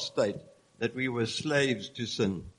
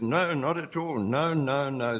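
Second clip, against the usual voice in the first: Paul's emphatic refusal, voiced with firm raised no's. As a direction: insist it hard, stamping each no. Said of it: "And Paul's emphatic".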